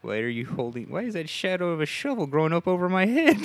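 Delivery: high, loud frightened questioning; play-acted victim's rising alarm; mock alarm. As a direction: build to a panicked pitch. Voices wife facing the shovel.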